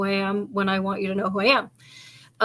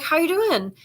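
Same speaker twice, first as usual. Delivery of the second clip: put-on sing-song greeting to a kid; 7 semitones higher than usual. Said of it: "So I'm like".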